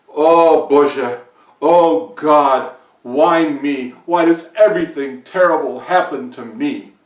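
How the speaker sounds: loud despairing cry to the heavens; anguished lament. Acted. Farmer cries out to God over his troubles, loud anguished wail. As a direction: wail it out, why always me.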